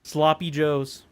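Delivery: slowed down, each word spelled out; slow repeat. Shown as a demonstration. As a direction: repeat it slowly so they catch it. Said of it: "Sorry, I'm gonna need you to repeat that".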